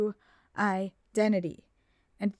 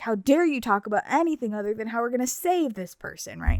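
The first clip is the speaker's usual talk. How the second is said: mock angry, put-on voice. Retelling a friend's reaction to changing the subject: imitating someone angry. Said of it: "he makes an angry face".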